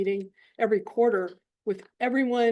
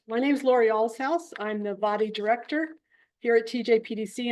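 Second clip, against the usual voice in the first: speaking up. Real, not acted. Director reintroducing herself to the meeting, speaking up. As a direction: speak up so the room can hear. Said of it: "Speak up".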